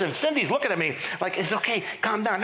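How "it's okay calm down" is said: mock reassurance, voiced for the wife; calm him down like a patient spouse; imitated soothing wife. Wife calming her husband in church, imitated reassurance.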